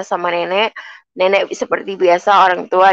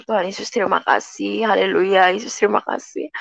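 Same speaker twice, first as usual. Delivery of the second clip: soft, grateful murmur to God; hushed thanksgiving; 6 dB quieter than usual. Retold or imitated. Maid kneeling by the fridge thanks Jesus, hushed. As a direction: breathe the thanks almost under your breath.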